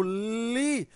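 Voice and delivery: "li" held long as if calling out; drawn-out syllable. Shown as a demonstration. Teacher showing pupils which syllable lasts longer, "li" drawn out. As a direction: stretch "li" slowly on a sustained vowel. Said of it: "demora mais".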